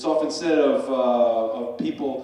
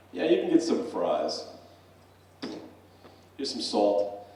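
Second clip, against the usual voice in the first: low-key barman serving an order; a hint of a laconic barman; lightly voiced barman; 3 semitones lower than usual. John the barman answering the fries order, lightly acted low-key reply.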